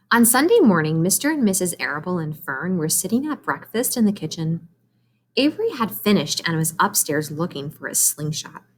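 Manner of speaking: clear, even read-aloud voice; story narration for kids. A narrator's reading. Teacher reads Charlotte's Web to her class, storytelling voice.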